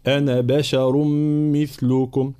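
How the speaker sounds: measured recitation, short أنا and thin بشر; light ba and shin. Shown as a demonstration. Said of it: "مع ترقيق حرف الباء وحرف الشين".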